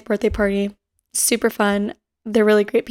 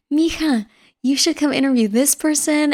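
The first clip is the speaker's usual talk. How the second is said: imitating dad; 4 semitones higher than usual. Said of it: "my dad was like".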